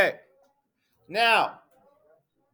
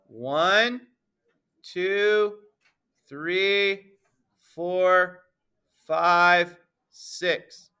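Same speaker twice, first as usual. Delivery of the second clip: slow counting; much slower than usual. Shown as a demonstration. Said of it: "You want me to count 'em for you?".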